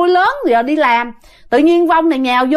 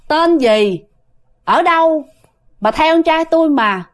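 spirit's other voice; 4 semitones higher than usual. Retold or imitated. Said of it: "trả lời bằng một cái giọng khác".

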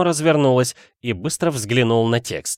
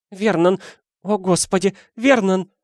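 high, strangled cry of the name; panicked wife gasping; choking panic; 8 semitones higher than usual. A narrator's reading. Petunia to husband over the letter, choking panic. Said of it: "захрипела, словно от удушья".

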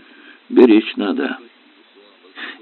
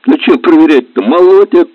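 high, louder cheerful exclaim; 11 semitones higher, 7 dB louder than usual. A narrator's reading. Mechanic answers the captain about the engine, cheerfully loud. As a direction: brush it off brightly, pleased. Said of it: "Чему-то радовался моторист".

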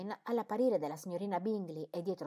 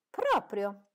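resentful; 3 semitones higher, 6 dB louder than usual. A narrator's reading. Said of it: "risentita da quelle sue allusioni".

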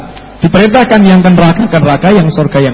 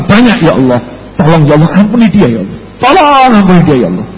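earnest prayer. Acted. Cleric prays for the sinner.

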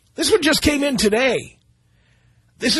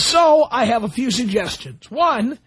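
mock reading; 2 semitones higher, slower than usual. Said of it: "He says".

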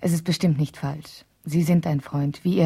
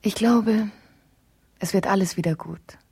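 whispered hope; 2 semitones higher than usual. Acted. Hopeful at Rudi's bedside.

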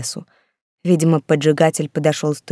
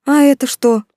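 surprised; 8 semitones higher, 5 dB louder than usual. A narrator's reading. Character's surprised question in story.

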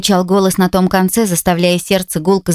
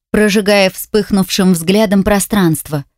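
ordinary delivery, nothing marked

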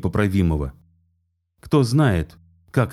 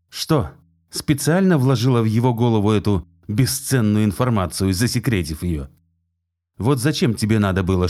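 angry; 3 semitones higher than usual. Acted. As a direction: hurl it at her in rage. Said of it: "В его глазах плескалась ярость".

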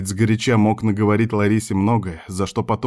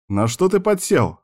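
much higher teasing question; joking, smiling; 10 semitones higher than usual. A narrator's reading. Man ribbing his giggly friend, playfully. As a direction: ask playfully through a smile. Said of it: "ради прикола поинтересовался, улыбаясь".

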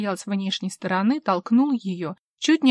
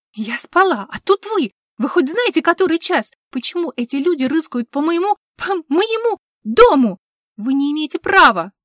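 much higher, louder rising hysteria; hysterical notes; 7 semitones higher, 8 dB louder than usual. A narrator's reading. Vivien breaking down hysterically at the intruders, shrill outrage. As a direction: lose control, near screaming. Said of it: "истеричные нотки".

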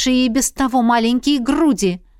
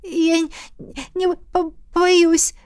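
much higher, stammering in fear; teeth chattering; 7 semitones higher, slower than usual. A narrator's reading. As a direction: chatter through each word. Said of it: "стуча зубами от страха".

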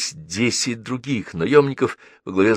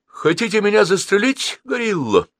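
put-on high, courteous boy's question; polite question. A narrator's reading. Boy asking the armed leader, politely. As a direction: ask with cheeky politeness. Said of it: "вежливо спросил Геннадий".

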